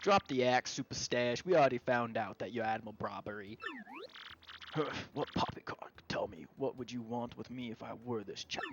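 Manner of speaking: gruff captain drifting toward pompous; lightly voiced old sailor slipping; old sea captain voice. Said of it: "I'm trying to slip into Flavio".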